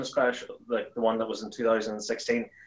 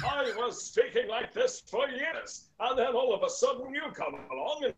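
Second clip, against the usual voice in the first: Peter Dixon; 9 semitones higher than usual. Acted. Pretending the announcer copied him, complaining in his high announcer voice. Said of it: "walk up to him and be like".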